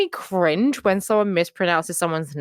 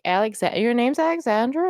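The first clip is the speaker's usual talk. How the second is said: American pronunciation; 4 semitones higher than usual. Retold or imitated. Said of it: "My American was like".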